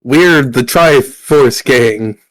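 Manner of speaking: very slow, grand announcement; slow pompous proclamation. Acted. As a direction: declare the gang name slowly and grandly. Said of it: "These three are like".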